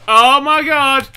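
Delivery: shrieking at the top of the voice, very high and drawn out; terrified scream. Real, not acted. Player fleeing a creepy robot, long terrified shriek. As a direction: scream and flee for your life. Creature turns toward him in game.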